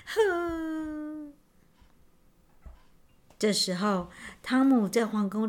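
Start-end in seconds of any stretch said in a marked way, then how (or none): 0.1-1.3 long high sigh, trailing softer; sorrowful sigh. A narrator's reading. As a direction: let out a drawn-out sigh of regret. Prince sighs after blaming himself. (懊悔地长叹一声)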